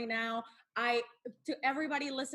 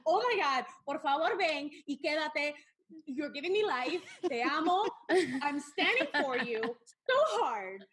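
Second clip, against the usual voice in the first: gushing fan squeal; 3 semitones higher than usual. Retold or imitated. Fan gushing over her favorite wrestler, excited squeal. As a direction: gush over him like a smitten fan. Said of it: "I am like".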